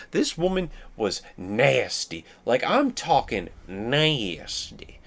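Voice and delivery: nasty dragged out slowly for emphasis; slow, heavy stress on nasty; emphasize nasty. Real, not acted. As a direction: lean hard and slow on nasty. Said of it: "you have to emphasize how nasty she was".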